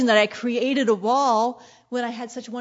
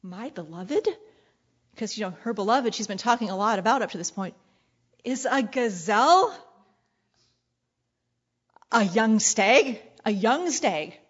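each phrase rising in disbelief; the bride taken aback by a wild, leaping lover; startled questioning. Shown as a demonstration. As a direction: ask it like she can't believe it. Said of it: "I hear it like".

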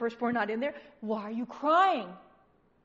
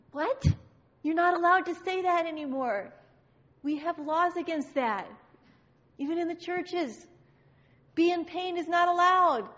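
higher, scandalized objection; mock indignation; 4 semitones higher, 3 dB louder than usual. Churchgoer saying pain is not allowed, mock indignant. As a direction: protest like an offended rule-keeper.

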